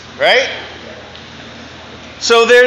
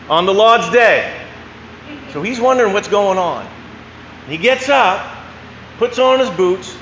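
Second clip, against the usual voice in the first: put-on best Maine accent. Telling a duck-hunting joke to a Sunday crowd, Maine accent. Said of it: "do it in my best Maine accent".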